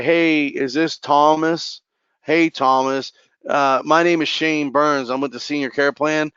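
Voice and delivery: slow, dull telemarketer drone; monotone and boring. Shown as a demonstration. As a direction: read it like a bored telemarketer, dragging each word. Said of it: "please don't call and sound like a telemarketer".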